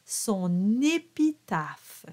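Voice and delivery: slow, drawn-out French demonstration; slow pronunciation model. Shown as a demonstration. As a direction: model the French phrase slowly for learners to copy. Teacher models the last lyric phrase.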